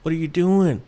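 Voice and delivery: mildly upset objection. Retold or imitated. Arguing back at a TV host about cicadas, mildly upset. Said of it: "I was upset".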